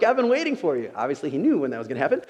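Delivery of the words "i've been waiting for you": high-pitched, eager greeting; excited welcome. Acted. God greeting someone long awaited in heaven, excitedly. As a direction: act out overjoyed anticipation. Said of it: "I'm so excited you are here".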